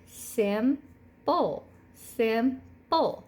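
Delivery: Simple split at the break, sim-ple; syllable demo. Shown as a demonstration. Teacher sounding out Simple for third graders. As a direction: give Simple two clear beats. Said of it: "The syllable break is between the M and the P".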